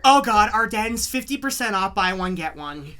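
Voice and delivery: put-on a loud, slowish shopping-girl squeal; bright snooty preppy girl. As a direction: gush like a bargain-hunting girl. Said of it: "Girls are gonna hate me".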